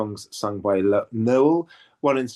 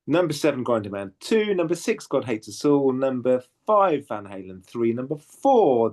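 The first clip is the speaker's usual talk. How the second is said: mock chart countdown, each number raised and stretched; chart rundown; 2 semitones higher than usual. Host counts down the leaderboard for listeners, chart rundown style. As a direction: announce each place like a chart DJ. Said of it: "correct sort of chart rundown style".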